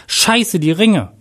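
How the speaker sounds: high-pitched cry of alarm; shout. A narrator's reading. Groom suddenly remembers the forgotten rings, shouting. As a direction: exclaim in sudden dismay, pitch jumping. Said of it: "schrie Jack".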